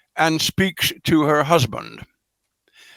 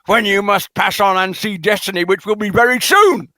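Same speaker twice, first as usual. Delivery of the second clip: heavy pointed reading, a mock queen hinting at the old king's death; 4 semitones higher than usual. Teasing listeners with the queen's unspoken hint, a pointed mock reading. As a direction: lean on the but, make the hint obvious. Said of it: "She says, you know".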